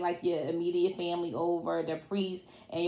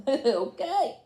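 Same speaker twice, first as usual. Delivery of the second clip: laughing okay; 4 semitones higher than usual. Real, not acted. Laughing after joke.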